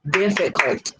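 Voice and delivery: "Difficult" measured out in three beats; syllable by syllable. Shown as a demonstration. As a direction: sound out each syllable of "Difficult". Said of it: "three syllables".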